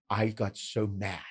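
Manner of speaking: slow, lightly imitated French Canadian accent; a hint of French Canadian, slowly. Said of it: "He's his Canadian accent".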